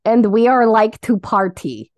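light mock Russian accent. Cohost quoting her friend's funny saying, Russian accent. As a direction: quote it in a playful Russian accent. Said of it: "that accent".

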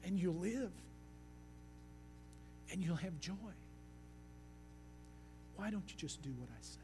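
a softly spoken, gently earnest God; loving but serious. Retold or imitated. God asking his people to obey, quietly tender. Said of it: "lovingly but seriously".

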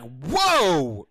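loud, high mock-shocked whoa; shocked daughter. Daughter reacts to dad's dare, imitated shock. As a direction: imitate a kid's startled outburst.

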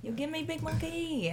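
mock Vietnamese accent calling the dealer over. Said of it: "It's Vietnamese accent".

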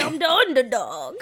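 lightly voiced wise-guy hero dog; a hint of a silly cartoon hero; Underdog. Friend demonstrates dubbing the dog's lines, lightly put-on character voice. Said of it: "wanted you to dub over the lines".

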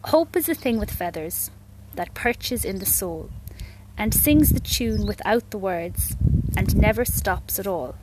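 measured, reflective poem reading; poem recitation. Acted. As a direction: recite it slowly, pausing after each line.

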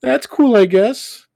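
high, loud mocking echo of Naveen; mocking imitation. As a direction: parrot his words back in a sneering high voice. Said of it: "turned to her coworker".

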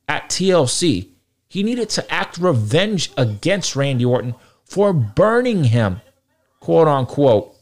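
rising frustration, pitch climbing high; barely holding back real anger; calm turning angry. Real, not acted. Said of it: "I'm trying to remain calm".

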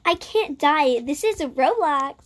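a hint of little-girl voice; inner little girl. Gamer quoting the inner me, lightly voiced little girl. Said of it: "my inner little girl speaking".

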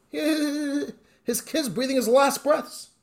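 choked up. Acted. Father's dying child, emotional retelling.

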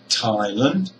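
Thailand with a strong, long THAI; "Thailand": stressed THAI, short weak second syllable; stress on first syllable. Shown as a demonstration. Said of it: "is a strong syllable".

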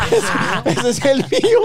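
agudo y fuerte, entre risas; reclamo entre risas. Retold or imitated. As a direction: dilo riendo, muy convencido. Narrador repite la frase riendo. (narrador imita al compa drogado, agudo, fuerte y riendo)

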